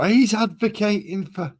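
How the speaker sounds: high, drawn-out mock outrage; mock accusation. Acts out an imagined accusing viewer.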